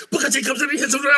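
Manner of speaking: high, rapid-fire shouted commentary; Booker T commentating. Retold or imitated. Friend mimicking a wrestler calling his own match, excited commentary. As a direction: call it like an over-excited ringside announcer. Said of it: "commentating his own match".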